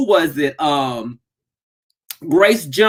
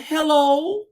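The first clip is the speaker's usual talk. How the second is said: lightly imitated mom, high rising hello; mom's hello; 7 semitones higher than usual. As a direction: mimic the mom's hello, laughing. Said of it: "tell her I said".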